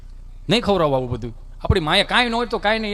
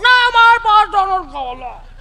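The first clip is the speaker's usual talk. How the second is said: much higher, louder bratty whine; whiny spoiled kid; 12 semitones higher, 7 dB louder, slower than usual. Acted. Spoiled son refuses the Maggi his mother offers, whining high. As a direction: whine like a fussy child refusing.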